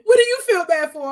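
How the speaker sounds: loud, high, amused disbelief; laughing protest. Real, not acted. Friend dismissing the other's guilt, laughing incredulously. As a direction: protest loudly through bursts of laughter.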